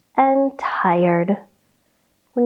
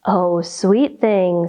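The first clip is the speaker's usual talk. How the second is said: lower, slow tender mother; 5 semitones lower, slower than usual. Acted. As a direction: soothe her kitten gently. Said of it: "said her mother tenderly".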